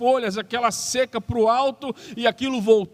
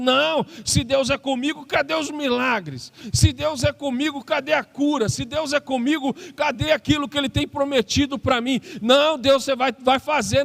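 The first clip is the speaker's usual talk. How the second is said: indignant; 3 semitones higher than usual. Acted. Gideon protesting to God, indignant and insistent. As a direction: press God, fed up and insistent. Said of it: "revoltado aqui, chateado, indignado".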